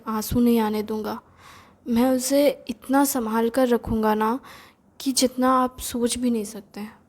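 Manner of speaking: imitated gentle, earnest assurance; lovingly reassuring. Brother-in-law vowing no tears for the sister, mildly tender reassurance. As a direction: soothe a worried brother-in-law, understated. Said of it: "बड़े प्यार से बोलता था".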